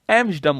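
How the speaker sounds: एम्स्टर्डम with neither T nor R sounded; silent T and R. Shown as a demonstration. Teacher summing up the rule, एम्स्टर्डम with silent T and R. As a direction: drop both T and R in एम्स्टर्डम. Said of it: "T और आर silent है".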